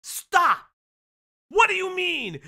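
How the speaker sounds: real angry yelling at a liar; furious outburst. Real, not acted. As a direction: blow up in genuine outrage. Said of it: "that shit makes me fucking demonstrably angry".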